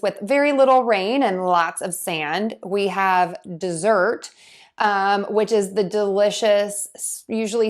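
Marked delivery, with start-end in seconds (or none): 3.6-4.3 "dessert" stressed on its second syllable, de-ZERT. Shown as a demonstration. Teacher introduces the word to learners, second syllable of "dessert" stressed. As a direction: lean on the end of "dessert". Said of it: "we typically stress syllable two".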